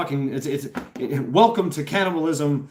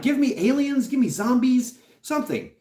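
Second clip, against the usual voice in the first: mock craving; 9 semitones higher than usual. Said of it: "that's what I'm like".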